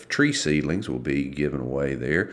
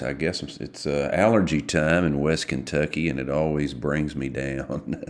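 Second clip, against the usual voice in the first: gravelly voice; 2 semitones lower than usual. Real, not acted. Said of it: "apologize, uh, in advance for my gravelly voice".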